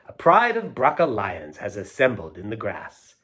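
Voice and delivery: lilting, rhythmic storybook reading; poem read aloud. Acted. Reader sharing a poetry book with children, sing-song rhythm. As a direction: read the rhymes with a playful bounce. Reads rhyming poem to kids.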